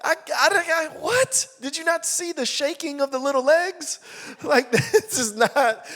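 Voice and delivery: high, laughing disbelief; incredulous. Retold or imitated. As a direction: protest with comic outrage. Protesting in disbelief.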